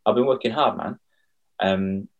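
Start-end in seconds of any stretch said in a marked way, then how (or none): 0.1-1.0 gushing thanks. Retold or imitated.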